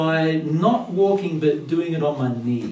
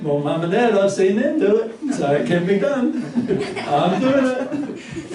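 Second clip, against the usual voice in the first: put-on higher, laughing child's voice, slowing at the end; confident toddler; 7 semitones higher than usual. Child explains to himself why he can climb the stairs, high and proud. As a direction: sound like a determined little boy. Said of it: "And he's going".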